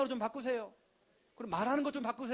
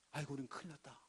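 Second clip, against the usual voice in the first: mock despair; 7 semitones lower, 12 dB quieter, faster than usual. Spies' despairing quote.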